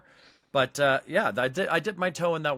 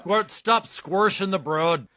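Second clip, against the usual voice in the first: put-on slow, louder Pittsburgh accent, squirshing for squashing; 6 semitones higher, 4 dB louder, slower than usual. Retelling a friend's Pittsburgh accent, slow and loud. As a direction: lean into a thick Pittsburgh accent on squirshing the broad. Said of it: "Pittsburgh accent".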